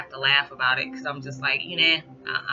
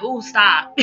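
exasperated; 5 semitones higher, 6 dB louder than usual. Retold or imitated. Reacting to daughter's mood.

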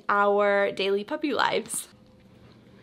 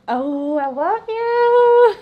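squeaky praising a dog; 10 semitones higher, 6 dB louder, much slower than usual. Real, not acted. Saying bye to the dogs.

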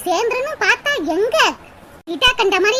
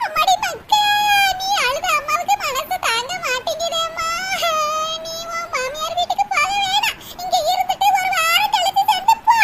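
hammed-up tearful mother; 4 semitones higher than usual. Mother sobs, begs daughter stay.

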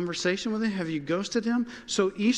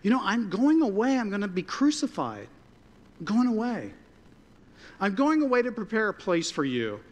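Jesus explaining; 5 semitones higher than usual. Retold or imitated. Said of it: "Jesus said".

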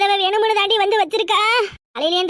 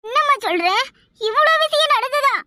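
shocked daughter; 7 semitones higher than usual. Acted. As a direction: draw it out in exaggerated shock. Daughter shocked at mother's injuries.

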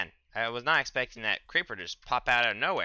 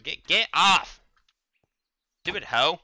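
angry yell; 7 semitones higher, 9 dB louder, slower than usual. Real, not acted. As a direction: shout it much higher and louder. Yelling at a mob attacking.

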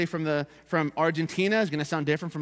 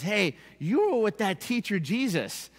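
higher, slow mock schoolgirl accusation; middle school girl; 4 semitones higher, slower than usual. Middle school girl spotting Peter, lightly voiced and higher. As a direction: lightly imitate a girl calling someone out. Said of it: "that middle school girl that says".

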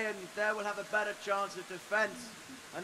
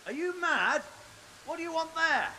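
incredulous; 7 semitones higher than usual. Acted. Lord scolds boy returning home.

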